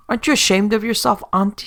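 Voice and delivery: high, loud scolding; scolding mother. Acted. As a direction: shame him like an old mother. Old mother scolds returning son.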